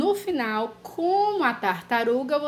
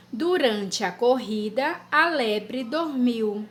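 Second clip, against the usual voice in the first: slow, word by word dictation; dictation pace; slower than usual. Shown as a demonstration. Teacher dictating a sentence to children. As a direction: dictate it slowly so children can write.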